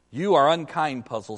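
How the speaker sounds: lightly voiced scheming ape, hurt tone; guilt-trip the donkey as the ape; lightly voiced ape reproaching the donkey; a hint of a wheedling ape. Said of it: "says Shift".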